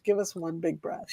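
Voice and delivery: breathy whispered cue; whispering. Real, not acted. Whispered repeat.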